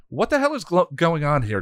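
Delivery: high, loud angry demand; haughty indignant outburst. Acted. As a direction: demand answers from the intruders. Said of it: "Glory demanded".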